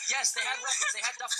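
panicked, high-pitched report. Real, not acted. Caller tells the dispatcher about the armed men, panicked and high. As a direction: voice jumps way up in real panic.

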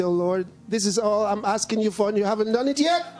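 mild mock grievance, rising at the end; mock angry complaint. Believers complaining to God over an unanswered request, mildly angry. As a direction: imitate an aggrieved believer, mildly. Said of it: "they even get angry at God".

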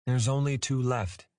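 gentle. A narrator's reading. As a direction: break it gently. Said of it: "he tried to explain gently".

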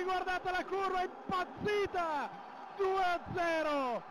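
breathless excited play-by-play; breathless italian goal commentary. Real, not acted. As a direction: shout the goal live.

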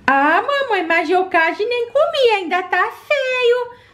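put-on high, pleading child voice; whiny little girl. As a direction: beg mum like a small girl. Child begging for more.

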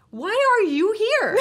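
high, loud and laughing through the words; laughing question. Retold or imitated. Retelling her question to the reporter, laughing. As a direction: ask it while cracking up.

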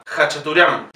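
Khachaturian begun with a Spanish jota; "jachaturián", a rasped first consonant in Khachaturian. Shown as a demonstration. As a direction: model Khachaturian with J for KH. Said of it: "lo pronunciamos como J".

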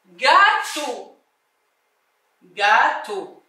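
"gâteau" sounded out as gâ, teau; careful teacher's "gâteau", syllable by syllable; separated syllables. Shown as a demonstration. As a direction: draw apart the two syllables of "gâteau". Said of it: "la syllabe dans laquelle tu entends".

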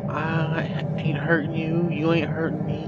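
smooth talk. Real, not acted. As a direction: charm him so he won't attack. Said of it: "my smooth talk over there".

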